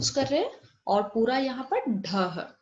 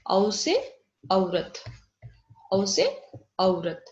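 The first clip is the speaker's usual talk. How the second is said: slow sounding out; 3 semitones lower, much slower than usual. Shown as a demonstration. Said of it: "teacher sounding out".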